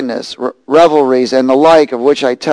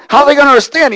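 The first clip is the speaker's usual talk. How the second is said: acted-out worry; 11 semitones higher, 4 dB louder, much faster than usual. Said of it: "I'm thinking".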